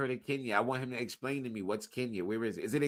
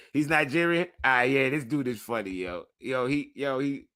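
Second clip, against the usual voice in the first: excited exclaim; 2 semitones higher, 8 dB louder than usual. Real, not acted.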